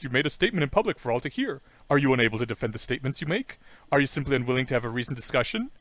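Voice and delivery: fast, lightly acted formal nagging; annoying sea lion. Sea lion nagging at her bedside, fast mock-formal pestering. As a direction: rattle off prim demands, mildly put on. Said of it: "conveying the annoyance of the sea lion".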